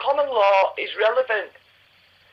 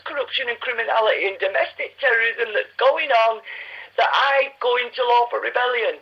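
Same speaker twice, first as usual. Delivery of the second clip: getting upset. Real, not acted. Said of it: "I'm getting upset".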